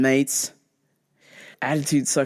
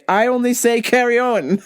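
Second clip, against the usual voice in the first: imitated British friend; 5 semitones higher than usual. Quoting a British friend's reply to the meme, imitated British accent. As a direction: put on your British friend's voice. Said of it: "had one British friend chime in and say".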